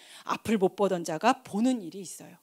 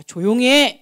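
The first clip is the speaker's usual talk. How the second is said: loud, higher-pitched mock scolding; scolding hush; 4 semitones higher, 9 dB louder than usual. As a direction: hush a noisy man with a loud order. Acts crowd hushing the blind man. (크게 꾸짖듯이)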